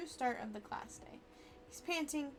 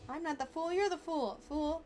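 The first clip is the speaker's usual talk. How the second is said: taunting; 4 semitones higher, 4 dB louder than usual. Acted. Rival trash talk.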